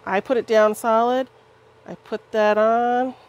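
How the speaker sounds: straining while pressing down; grunting with effort, pressing hard. Real, not acted. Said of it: "Sorry about my grunting".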